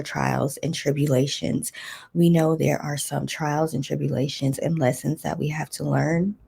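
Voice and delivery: scratchy, hoarse throat. Real, not acted. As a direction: talk through a hoarse throat. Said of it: "My throat is like".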